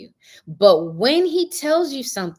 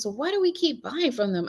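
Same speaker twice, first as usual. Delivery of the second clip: son's voice; 9 semitones higher, 4 dB quieter than usual. Retold or imitated. Son quoted, high pitch.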